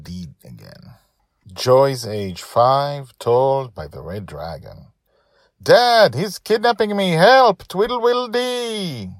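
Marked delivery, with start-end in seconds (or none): 5.6-9.1 put-on high, loud child yelling for dad; child's cry for help. Kidnapped girl screams to her father, loud and high. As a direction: shriek for help like a captured five-year-old.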